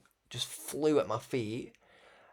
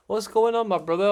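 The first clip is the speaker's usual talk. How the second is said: higher, louder hail to a brother; loud excited greeting; 9 semitones higher, 10 dB louder than usual. Retold or imitated. Greeting the preacher loading his boot, loud and high. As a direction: call out a big hello across the street. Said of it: "I said".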